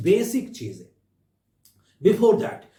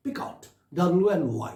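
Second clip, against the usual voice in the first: slow dictation; 2 semitones lower, much slower than usual. Shown as a demonstration. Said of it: "teacher repeats instruction in English".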